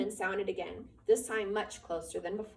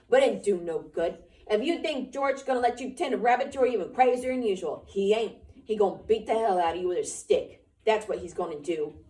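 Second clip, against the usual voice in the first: loud, scolding rabbit; berating rabbit; 8 dB louder than usual. Acted. The rabbit berating Lenny, loud and scolding. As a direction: tear into him loudly.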